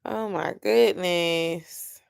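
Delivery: slow, soft, worn-out groan; weary and deflated. Real, not acted. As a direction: say it drained and done. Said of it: "I already answered that twice".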